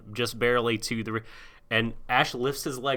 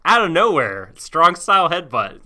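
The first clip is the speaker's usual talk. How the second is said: excited; 6 semitones higher, 8 dB louder than usual. Real, not acted. Excited agreement about headbutt.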